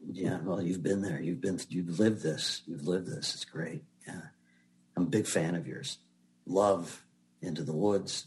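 soft, low-key retold approval of an audition; intimate, personable director. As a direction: quietly imitate a director's easy praise. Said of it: "becomes very intimate and personable".

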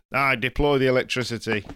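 put-on light northern English accent; a touch of northern accent. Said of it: "I decided to do a northern accent as well".

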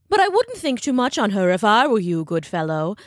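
haughty little sniff of a reply; smug schoolteacher. Acted. Ichabod voiced, smug.

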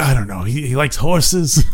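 lightly voiced clueless guy. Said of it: "he's like".

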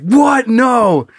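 high-pitched feigned disbelief; mock shocked denial. Friend denies the prank to housesitter, mock shocked. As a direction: play innocent, voice leaping up.

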